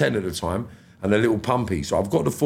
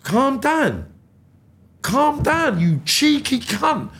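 retold fury at being told to calm down; outraged mock shout; 13 semitones higher, much slower than usual. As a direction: throw it back at them, outraged.

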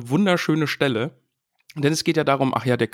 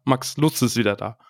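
happy. Real, not acted. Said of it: "mein Herz erfüllt sich mit Wärme".

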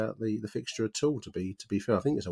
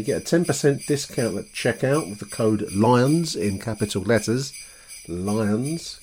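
louder, projected sponsor read; podcast ad read; 8 dB louder than usual. Real, not acted. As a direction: pitch the sponsor to the listeners with energy. Reads sponsor promotion at opening.

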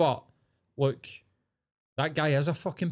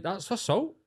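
higher-pitched incredulous outrage at the bystanders; outraged rant; 4 semitones higher than usual. Retold or imitated. Retelling a crowd scuffle, imitating an outraged bystander's rant. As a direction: rant at them as if you were there, voice climbing. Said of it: "and you're like".

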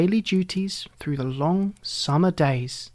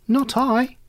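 rat voice; 8 semitones higher than usual. A narrator's reading. Rat refuses in story.

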